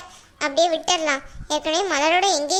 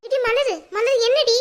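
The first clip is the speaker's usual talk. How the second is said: higher, alarmed call to stop her; 5 semitones higher, slower than usual. Acted. Mother to angry daughter, alarmed calling. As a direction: call her name to rein her in.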